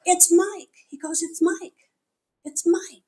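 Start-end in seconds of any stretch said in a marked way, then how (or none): 0.0-0.7 higher and louder, sudden realization; surprised recognition. Real, not acted. 1.2-3.0 excited confirming. Retold or imitated. Mike confirms happily.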